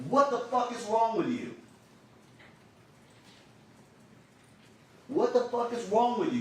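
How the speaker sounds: high, loud mock scream at the man; retold scream. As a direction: yell it at him, half-acted. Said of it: "she first screams in really loud".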